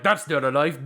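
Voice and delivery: put-on a weak stab at an Australian accent; badly faked Australian accent; attempted Australian accent. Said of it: "I can't do an Australian accent".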